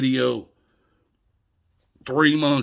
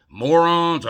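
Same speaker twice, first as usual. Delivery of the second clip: loud sneering question, pitched up; mock insult; 7 semitones higher, 9 dB louder than usual. Ranting at viewers, a loud mocking jab. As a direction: spit it out like a sarcastic accusation.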